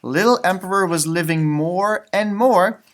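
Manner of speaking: gentle read-aloud storytelling voice; story narration. Acted. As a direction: read it like a bedtime picture book. Reading picture book aloud.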